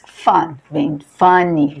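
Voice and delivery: slow fun then funny with an ee ending. Shown as a demonstration. Teacher showing how fun becomes funny. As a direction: contrast fun and funny slowly. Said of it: "vai virar".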